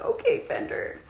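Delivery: squeaky coo. Real, not acted. Cooing at her kitten Fender, squeaky and hushed.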